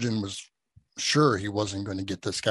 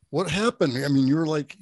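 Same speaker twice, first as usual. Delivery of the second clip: surprised wife; 4 semitones higher, 3 dB louder than usual. Retold or imitated. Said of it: "Linda's like".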